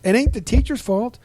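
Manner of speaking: mock-indignant old man's voice; indignant old fireman. His, his words.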